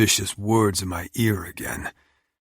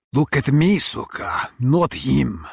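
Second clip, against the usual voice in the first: sharp, louder, higher command; angry shout; 6 semitones higher, 5 dB louder than usual. Acted. Villain Oleg yells at Tatiana to look at him. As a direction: bark it at her to look at you.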